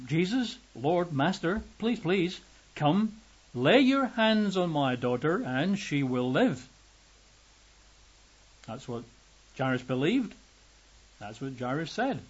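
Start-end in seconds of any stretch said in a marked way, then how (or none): 0.1-6.7 higher, urgent, begging please, please; desperate father begging at Jesus's feet; pleading father. Acted. Father pleads with Jesus for his daughter, urgently.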